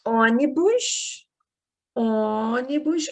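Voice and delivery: Ônibus slowed, with a closed Ô at the start. Shown as a demonstration. Teacher shows pupils the closed O of ônibus. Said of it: "Estou fechando o O".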